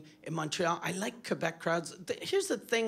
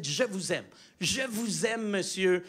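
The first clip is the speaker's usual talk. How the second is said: tender French declaration. Retold or imitated. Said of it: "I said".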